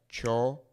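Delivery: chocolate as cho... co... la... teh; Spanish chocolate with a gap after each syllable; broken into syllables. Shown as a demonstration. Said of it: "We can break it up into syllables".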